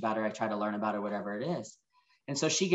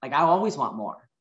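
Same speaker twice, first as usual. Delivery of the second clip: retold angry reply; 4 semitones higher, 4 dB louder than usual. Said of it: "I got really angry with that".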